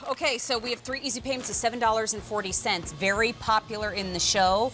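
quick on-air sales pitch; home shopping host. Acted. On-air price and order pitch.

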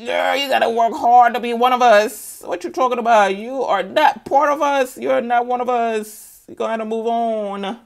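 emphatic acted-out rejection; voiced rebuke. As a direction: tell her off with sass. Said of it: "He said".

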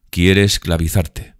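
loud, slow warning; lightly voiced brother, heavy emphasis; resentful brother. (hermano resentido, lento y fuerte)

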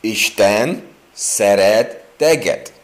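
slow, careful "Isten szeret téged"; Hungarian phrase. Shown as a demonstration. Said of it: "you know how to say it in Hungarian?".

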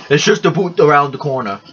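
light mock Canadian accent, "aboot"; hint of a stereotypical Canadian accent. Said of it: "stereotypical American way of Canadian accent".

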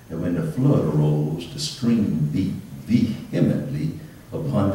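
measured, solemn Bible reading; solemn reading from the Gospel of Luke; scripture reading. Acted. Reads scripture aloud.

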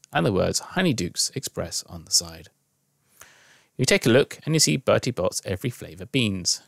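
measured storytelling read; story narration. A narrator's reading. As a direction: read it as an unfolding story, with pauses. Reads interactive story aloud.

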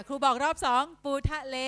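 classroom voice, "ปูทะเล" given syllable by syllable; second dictation call. Shown as a demonstration. Teacher repeats the word for pupils, dictation voice.

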